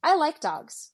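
high, drawn-out sudden recollection; retold happy realisation, high and slow; pleased remembering. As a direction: imitate him slowly remembering, pitched well up. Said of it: "he was remembering that he likes dogs".

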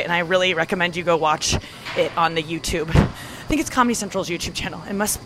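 breathless, gasping for air between phrases; out of breath. Real, not acted. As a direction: talk while catching your breath. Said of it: "I'm sorry I'm out of breath".

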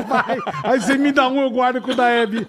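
giggling while talking; after laughing hard. Real, not acted.

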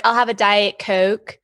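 light Mid-Atlantic accent with long O's in "Coke"; mild Maryland accent, long O's; Jersey Philly Maryland accent. Shown as a demonstration. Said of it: "the long O's".

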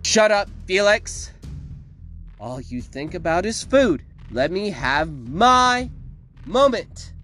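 high, loud, drawn-out outburst; exasperated villainess. A narrator's reading. Victoria scolds Felix and accuses the mayor, angry. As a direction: scold the beast, then accuse the town.

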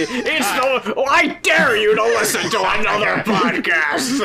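slow, hammed-up trailer pitch; Russ Meyer trailer announcer. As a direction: dare the audience like an old exploitation-film announcer. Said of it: "get the Russ Meyer guy to advertise".

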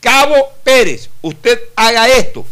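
loud curt military command; barking sergeant. Retold or imitated. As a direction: bark the order like a drill sergeant. Sergeant giving an order.

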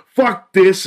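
high, loud mock tantrum yell; hammed-up fit over a board game; mock angry outburst. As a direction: snap it like a sore loser flipping the board. Babysitter throws a fit.

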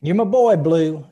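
loud, high mock hype shout; movie-quote shout. Friend hyping his pal with a loud movie-line shout. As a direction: bellow it like a proud buddy.

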